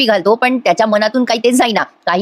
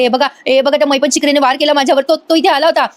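higher-pitched imitation of a frightened victim; mock alarmed accusation; 4 semitones higher than usual. Priya shows everyone her wounds, mock alarmed accusation. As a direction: play up the alarm, voice raised in pitch only.

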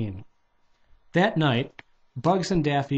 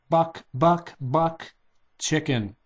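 chicken-cluck taunt; 3 semitones higher, slower than usual. A narrator's reading.

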